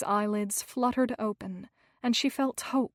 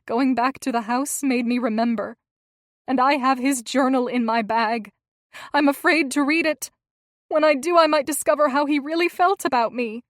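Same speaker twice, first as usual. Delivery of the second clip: anxious; 3 semitones higher, 8 dB louder than usual. A narrator's reading. Hazel confides her fear, upset.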